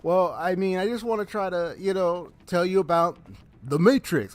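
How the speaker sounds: lightly imitated serious caller; mock-earnest pitch from a persistent caller; deep-voiced caller. Caller trying to tell him about The Matrix, mock-serious. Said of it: "it was literally the deep voice".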